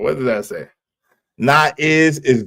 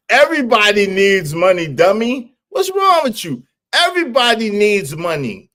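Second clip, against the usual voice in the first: mock scolding; 6 semitones higher than usual. Real, not acted. Scolding chat, high and mocking.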